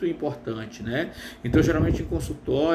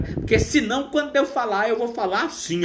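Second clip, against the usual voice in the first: harsh untrained voice; 8 semitones higher than usual. Shown as a demonstration. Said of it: "eu tenho uma voz muito ardida".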